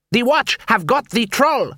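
angry dwarf. Acted.

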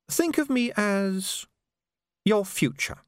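high, slow, drawn-out menace; assassin. A narrator's reading. Assassin to his doomed victim, high and slow. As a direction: let the threat hang, slowly.

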